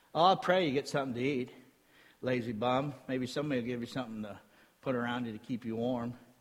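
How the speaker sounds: snide, mocking, sarcastic tone with fake well-wishing. Explaining how a verse is actually meant, in a sarcastic tone. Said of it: "it's actually spoken in a sarcastic way".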